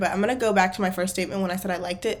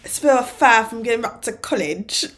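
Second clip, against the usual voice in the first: put-on quoting in a British accent; lightly imitated British accent; 2 semitones higher than usual. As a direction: echo the line with a mock British accent. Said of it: "Like that. ... he's a Brit".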